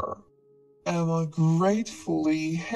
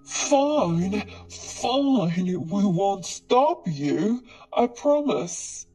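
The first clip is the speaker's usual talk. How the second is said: frightened cry; 3 dB louder, slower than usual. Acted. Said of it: "David cried".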